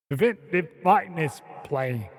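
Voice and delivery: careful practice run at a Boston accent; amateur Boston imitation with Australian vowels; attempted Boston accent. Shown as a demonstration. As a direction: copy a Bostonian, word by word. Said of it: "Am I getting it there?".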